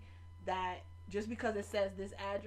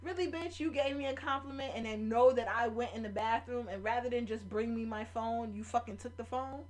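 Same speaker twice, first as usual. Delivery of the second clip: angry confrontation; 3 semitones higher, 4 dB louder than usual. Retold or imitated. Confronting the girl who took her phone, indignant. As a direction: snap at the thief who took it.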